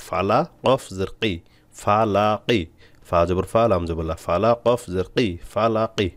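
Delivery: measured chant-like spelling, blended syllables drawn out slowly; spelling-out recitation. Shown as a demonstration. Teacher spelling a word for learners, slow drawn-out recitation. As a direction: spell each letter, then stretch the joined syllables.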